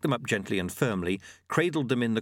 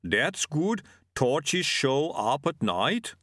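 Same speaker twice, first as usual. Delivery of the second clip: bigfoot; 4 semitones higher, much slower than usual. Acted. Yeti speaks slowly.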